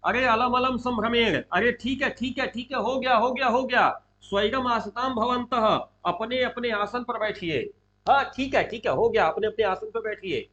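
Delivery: lightly projected, hurried "enough, sit down"; speaking out loud. Acted. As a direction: call out to settle a standing assembly. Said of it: "प्रकाशम जोर से बोलते हैं".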